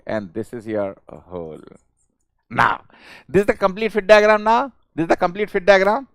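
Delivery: ordinary delivery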